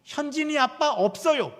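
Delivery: put-on high, loud little-girl retort. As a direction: imitate a toddler announcing it loudly on the phone. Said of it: "예진이가 받은 거죠". (높고 큰 꼬마 목소리 흉내)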